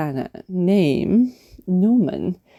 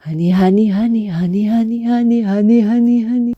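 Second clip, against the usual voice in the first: greedy Norman; 3 semitones higher, much faster than usual. Acted. Norman gobbling honey.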